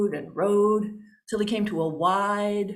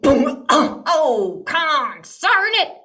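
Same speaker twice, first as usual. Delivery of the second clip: loud comic yelp, then a slow grumbled curse; hammed-up startled oath; crash and curse; 4 semitones higher, 4 dB louder, slower than usual. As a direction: holler like a clumsy old coot. Salesman crashes trying to leap into pants.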